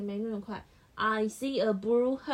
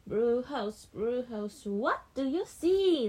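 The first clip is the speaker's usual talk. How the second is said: put-on reading to a child; slower than usual. Shown as a demonstration. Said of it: "所以blue house说".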